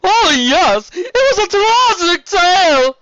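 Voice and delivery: over-the-top friendly serpent duke; flamboyant sea serpent. Acted. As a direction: gush like a warm, showy nobleman. Serpent dramatizes.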